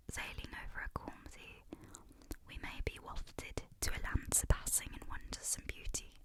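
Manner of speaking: relaxed whispered British accent, not overdone; casual British accent. Shown as a demonstration. ASMR reader retrying the passage in a casual British accent. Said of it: "a bit more of a casual British accent".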